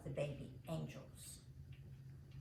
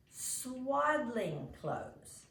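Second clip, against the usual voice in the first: sighing; 6 semitones higher, much slower than usual. A narrator's reading. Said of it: "Mother sighed".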